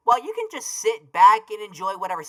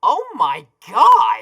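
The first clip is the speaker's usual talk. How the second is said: excited shout; 3 semitones higher, 6 dB louder, slower than usual. Acted. Shocked reaction.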